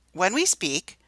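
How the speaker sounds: slight pause after "When we speak". Shown as a demonstration. Teacher reading aloud, pausing where the comma goes. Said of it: "did you hear the pause".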